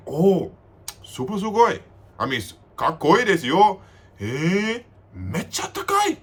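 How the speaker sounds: high, gushing Japanese compliments. Retold or imitated. A guy in the bathroom line gushing at him in a high voice. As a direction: gush over him like a tipsy admirer. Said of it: "he's like".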